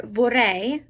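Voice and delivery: "vorrei" ending in an ay sound as in sleigh. Shown as a demonstration. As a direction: slowly model "vorrei" as vor-RAY. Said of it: "E I sounds like A".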